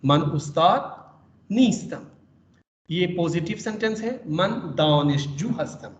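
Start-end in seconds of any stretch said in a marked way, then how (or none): 0.0-2.0 نیستم set apart after a pause, pitched up; pause, then hit نیستم; stress on نیستم. Shown as a demonstration. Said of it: "نیستم پہ تھوڑا سا stress کریں گے". 4.2-5.9 slow, with دانشجو carried; stress on دانشجو. Shown as a demonstration. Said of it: "دانشجو پہ ہم stress کریں گے".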